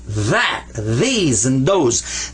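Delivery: that, these, those with a strong voiced th; heavy th words. Shown as a demonstration. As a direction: lean into the heavy th. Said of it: "this one is like this".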